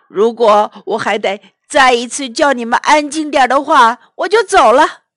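loud, quick warning; angry threat. Acted. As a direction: warn them one last time.

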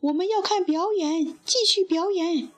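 lightly acted audience clamour; mild impatient shout. A narrator's reading. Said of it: "他们喊着".

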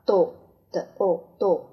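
doll with a rounded o; second reading. Shown as a demonstration. Teacher models the second reading of doll. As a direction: doll said as dawl. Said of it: "第二种读法".

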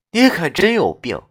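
laughing in disbelief; laugh, half amused half fed up; a ghost laughing at his silliness; exasperated laugh. Acted. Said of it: "哭笑不得地说道".

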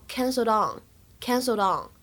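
canceled on run together, the d sliding straight into on; linked canceled on. Shown as a demonstration. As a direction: link canceled on as one word. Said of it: "就可以连读". (连读的canceled on)

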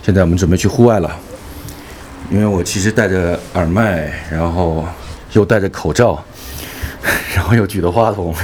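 muffled behind a mask; through a face mask. Real, not acted. (戴着口罩说话)

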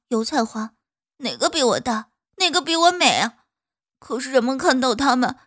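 loud, indignant flower voice; a flower griping about unfairness; complaining flower. Acted. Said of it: "泡桐花说".

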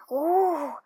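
mild spooky "woo" howl; imitated distant howl. A narrator's reading. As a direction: hoot like a far-off beast. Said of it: "一声响亮的吼叫".

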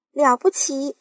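high, loud delight; aunt cheering the peach; excited cry. Acted. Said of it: "叫道".

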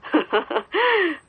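short amused laugh; soft laugh. Acted. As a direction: let out a light chuckle. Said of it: "笑了起来".

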